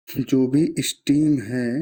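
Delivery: deliberately slowed-down phrase, word by word; बहुत slow. Real, not acted. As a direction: speak slowly and carefully, watching each word. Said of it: "इसीलिए मैं बहुत ही ज़्यादा slow". (धीरे-धीरे, संभलकर बोलते हुए)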